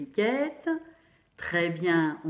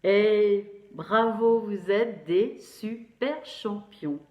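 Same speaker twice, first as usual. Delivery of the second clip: slow loud praise; 5 dB louder, slower than usual. Real, not acted. Praising pupils.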